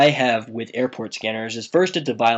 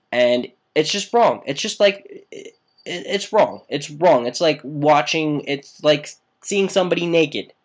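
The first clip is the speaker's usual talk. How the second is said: worked-up, higher-pitched protest; higher and more emphatic, pleading the case; impassioned insistence; 4 semitones higher, 3 dB louder than usual. Real, not acted. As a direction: argue it with real heat, pitch raised. Worked up arguing it's wrong.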